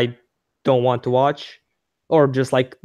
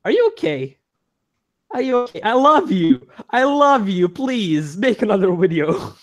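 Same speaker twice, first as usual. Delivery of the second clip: high-pitched mock-desperate plea; emotional pleading, imitated; 7 semitones higher than usual. Podcaster acting out an emotional reaction, high imploring voice. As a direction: act out an emotional declaration, begging at the end. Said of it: "you hear emotion".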